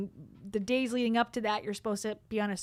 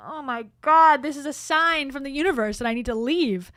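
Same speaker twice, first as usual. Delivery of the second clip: mock panic; 4 semitones higher, 5 dB louder than usual. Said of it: "I'm like".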